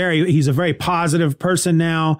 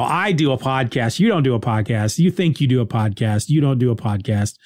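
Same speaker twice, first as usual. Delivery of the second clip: mild lower, smug put-down; scoffing dismissal; 4 semitones lower than usual. Retold or imitated. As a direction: dismiss them under your breath. Inner scoffing at rival.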